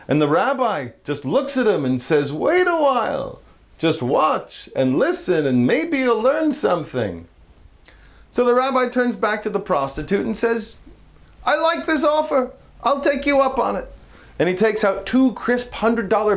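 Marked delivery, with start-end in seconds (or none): 2.3-7.3 put-on old rabbi, slower. Rabbi voiced in joke, slower. 11.5-13.9 higher, lightly voiced old rabbi accepting; a touch of a pleased old rabbi; eager rabbi. Rabbi accepts offer in joke.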